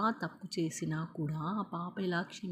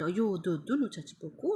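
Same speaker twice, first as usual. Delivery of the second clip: pleading cry. Acted. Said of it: "దయ్యం ఏడుస్తుందంట".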